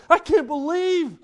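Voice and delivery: a shepherd stunned by what God showed him; awed, slow I can't believe; amazed disbelief. Retold or imitated. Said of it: "That's what they were going".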